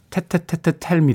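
slow 테테테테 stutter into Tell Me; stuttering imitation. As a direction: repeat 테 four times then Tell Me. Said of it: "Tell Me라고 발음하는". (테테테테 더듬으며 Tell Me)

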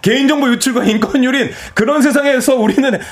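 high-pitched, tongue-in-cheek storybook ending; mock happy ending. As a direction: sum it up like an ironic fairy tale. 비꼬는 동화식 결말. (높은 톤으로 비꼬는 동화 결말)

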